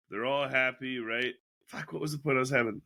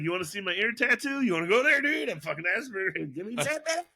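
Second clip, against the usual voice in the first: mock tough-guy challenge; 7 semitones higher than usual. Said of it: "It's like".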